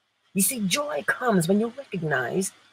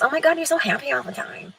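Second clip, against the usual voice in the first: mock amazed friend; 6 semitones higher, faster than usual.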